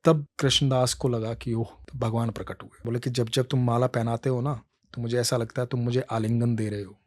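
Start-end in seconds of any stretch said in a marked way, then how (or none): 3.1-7.0 softer, tender explaining; Krishna tells his devotee how he waited; gentle Krishna. Acted. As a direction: soothe the hurt devotee.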